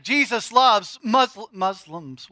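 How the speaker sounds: loud, slow, emphatic proclamation with stress on loves; blurted bold. Shown as a demonstration. Preacher proclaims to congregation, bold and loud. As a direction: declare it boldly to the crowd. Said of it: "did that come out of my mouth?".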